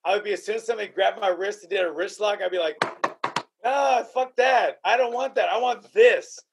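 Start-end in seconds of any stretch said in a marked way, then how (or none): 3.6-6.4 drawn-out, higher groan into a firm refusal; mock refusal. Fighter imagining his reaction to a wrist lock, mock refusal. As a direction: wave it off, punching up the last words.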